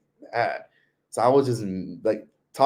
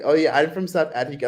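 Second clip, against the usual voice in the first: put-on a light Indian accent, pitched up to pass as South African; imitating Tyler's Indian accent; 5 semitones higher than usual. To a vendor, a mild imitated Indian accent. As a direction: put on Indian accent to dodge higher prices. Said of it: "trying to talk like Tyler".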